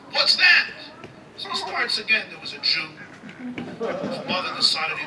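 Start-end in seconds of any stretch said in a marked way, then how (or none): 0.1-0.7 high, loud, bewildered demand; high incredulous yell; baffled shout. Acted. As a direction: shout it like a confused ancient Roman. Ancient Roman quizzing modern guide.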